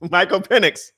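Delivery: "Penix" as PIN-ix, announced firmly; correct pronunciation. Shown as a demonstration. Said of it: "No, it's Penix".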